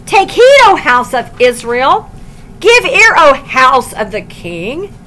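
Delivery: loud, mock-grand calls, drawn out at the end; mock the king with exaggerated grandeur; sarcastic summons. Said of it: "This is sarcasm".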